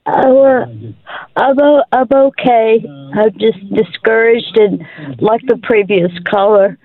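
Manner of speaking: real, tearful admission; crying. Real, not acted. Discouraged caller admits to the radio host she is crying, tearful. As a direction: talk through tears, apologetically. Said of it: "I'm crying".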